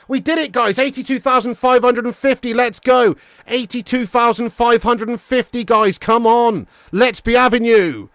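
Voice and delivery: rally the viewers in celebration; celebratory cheer. Real, not acted. Celebrating subscriber count live.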